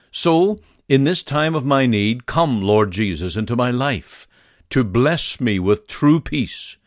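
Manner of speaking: earnest spoken prayer. Acted. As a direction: pray it aloud, sincerely pleading. Leads a prayer for the sick.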